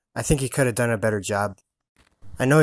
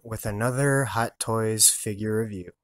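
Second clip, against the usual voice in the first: stuffy nose from the flu; nasal voice. Real, not acted. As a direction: speak through a blocked nose. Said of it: "If I sound all nasally".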